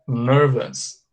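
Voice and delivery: NERVOUS slow, as "NUR-vus"; correct pronunciation. Shown as a demonstration. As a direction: draw out "nervous" with a reduced ending. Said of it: "É assim que se pronuncia".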